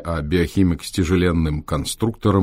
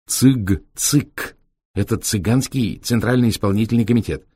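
higher lively gypsy explaining; gypsy driver voice; 3 semitones higher than usual. Acted. Витёк объясняет. (голосом цыгана-шофёра)

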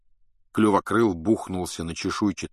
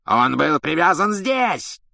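loud, raised, enraged shouting; furious yell; 8 semitones higher, 5 dB louder, slower than usual. A narrator's reading. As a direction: roar it out in a fury. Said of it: "с бешенством заорал палач".

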